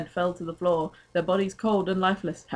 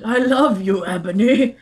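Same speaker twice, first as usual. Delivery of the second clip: hammed-up lover's farewell; 5 semitones higher, 9 dB louder, slower than usual. Satan's tearful farewell line.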